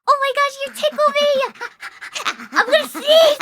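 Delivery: fast, giggly squeal from being tickled; squealing through the tickles; laughing while tickled. Real, not acted.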